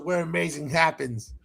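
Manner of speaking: a hushed promo slogan, like a commercial; trailer slogan. Retold or imitated. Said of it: "it would do that commercial".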